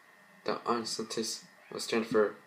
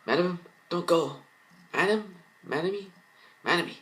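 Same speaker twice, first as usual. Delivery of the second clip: tearful pleading; 9 semitones higher than usual. Acted. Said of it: "Lady tears in her eyes".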